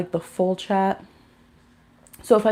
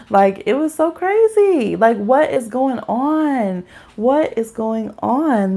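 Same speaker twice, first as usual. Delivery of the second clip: exasperated disbelief; 4 semitones higher, slower than usual. Real, not acted. Exasperated retelling, slowed.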